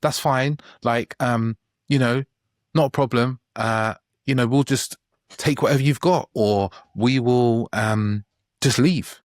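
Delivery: high, eager, placating voice; a pushover caving in to the restaurant staff; mock people-pleaser. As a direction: cave in sweetly, keep saying it's fine. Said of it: "you suddenly go into this pleasing and you're just like".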